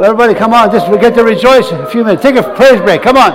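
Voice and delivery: rally everyone to their feet; rousing call to praise. Real, not acted. Calls congregation to stand.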